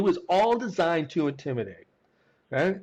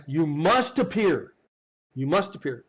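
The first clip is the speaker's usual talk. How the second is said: slow, lightly voiced stern agent; a hint of a bureaucrat reading a summons; mock stern summons. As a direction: drag out "You must appear." like an official decree.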